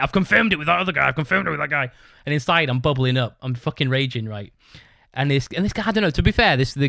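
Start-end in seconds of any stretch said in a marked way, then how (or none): 0.0-1.9 mocking the landlord. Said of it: "he just said it".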